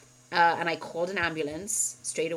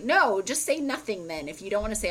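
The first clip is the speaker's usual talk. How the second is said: retold irritation, slightly higher; pissed off; 4 semitones higher, 4 dB louder than usual. Retelling argument with husband over "I love you", irritated. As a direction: push back at him, mildly exasperated. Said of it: "I would get pissed".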